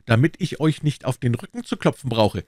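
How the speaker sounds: high, loud call after a mocker; furious young swordsman calling out; challenging shout. A narrator's reading. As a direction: shout him down and make him turn. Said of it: "folgte ihm nach und rief".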